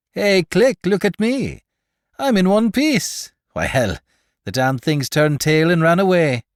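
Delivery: high, loud jubilant call; triumphant. Acted. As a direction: crow over coming back whole. Triumphant after surviving monsters.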